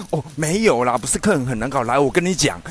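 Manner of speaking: 又开始咄咄逼人地讲; pushy vendor. Retold or imitated. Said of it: "又开始这样咄咄逼人". (模仿老板急着解释)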